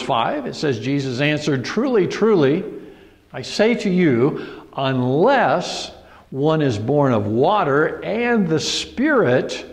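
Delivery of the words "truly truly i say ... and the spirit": a lightly emphatic Truly, truly with slow, weighty words. Retold or imitated. Preacher stressing Jesus' answer to Nicodemus, slow and emphatic. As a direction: give Jesus' words weight, stretching them out slowly. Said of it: "again, this is emphatic".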